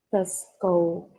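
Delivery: "Stethoscope" slow, middle th as Spanish Z. Shown as a demonstration. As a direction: model "Stethoscope" slowly in two pieces, ste-thascope. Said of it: "podemos usar una Z". ("Stethoscope" despacio, con zeta en medio)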